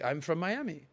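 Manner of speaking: soft put-on French accent. Tourist telling a French girl his home, French accent. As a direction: answer in a light fake French accent. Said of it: "You talk like this".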